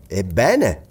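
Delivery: questioning exclamation, swinging up in pitch; exclaiming. A narrator's reading. Husband waiting for his wife's idea, exclaiming. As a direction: prompt her eagerly to go on. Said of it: "esclamò Glenarvan".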